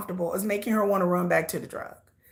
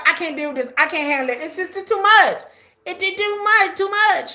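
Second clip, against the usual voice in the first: mocking Candace; 5 semitones higher than usual. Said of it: "Two days, she like".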